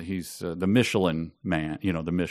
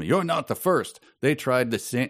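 attempted Canadian accent, pitched up; 5 semitones higher than usual. Old columnist answering Becker, attempted Canadian accent. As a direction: have a go at an indignant Canadian. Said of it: "oh, maybe my Canadian accent".

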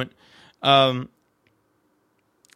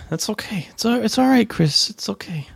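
whispering; 6 semitones higher than usual. Pretend. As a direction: hush it like calming a child. Mock-comforting a hiccuping friend.

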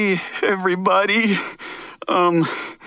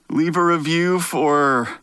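clickbait video narrator; slower than usual. Acted. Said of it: "the ultimate clickbait".

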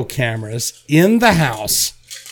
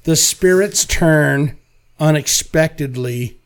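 movie trailer voice. Acted.

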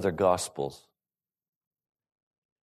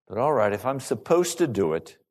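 mildly reluctant giving in; grudging attitude. Acted. Giving in to a duty, mildly grudging. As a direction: concede with a touch of attitude. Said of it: "you get an attitude, and you say".

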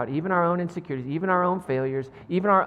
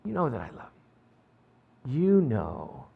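pained plea to hush. Acted. Peter answers, hurt, third time.

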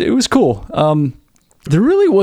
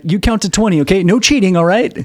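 lightly acted playful killer, higher pitch; 5 semitones higher than usual. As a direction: set the game's rules playfully, voice lifted. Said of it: "he's being very playful about it".

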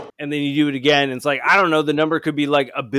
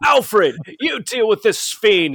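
louder heroic command to the butler; Batman voice; 6 semitones higher, 3 dB louder, slower than usual. Pretend. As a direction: bark orders like Batman. Batman voice calling Alfred.

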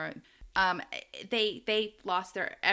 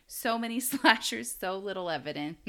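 laughing quote. Retold or imitated. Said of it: "as Tiffany would say".

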